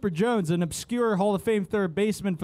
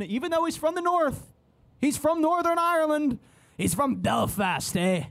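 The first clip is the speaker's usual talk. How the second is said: high, lilting Irish attempt sliding into Canadian; botched Northern Irish accent; 7 semitones higher than usual. Host saluting an Irishman, bad Irish accent turned Canadian. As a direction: try a Belfast accent and land in Canadian. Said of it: "That was Canadian".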